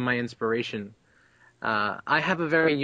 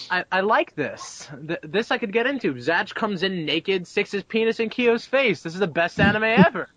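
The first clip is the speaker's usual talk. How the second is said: delighted reaction; 5 semitones higher than usual. Retold or imitated. Acting out his delighted first reaction.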